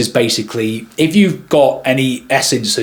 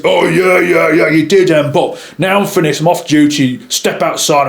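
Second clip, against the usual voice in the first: slightly raised put-on voice; other photographer's voice; 4 semitones higher than usual. Photographer off duty challenging the guest outside, put-on voice. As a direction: imitate a colleague squaring up to a guest. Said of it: "he talked with this kind of".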